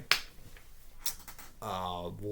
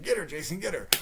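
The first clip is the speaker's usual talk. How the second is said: higher, eager urging of Jason; a hint of a sly psychiatrist; egging-on villain; 9 semitones higher than usual. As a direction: goad him on from the sidelines. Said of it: "He's like".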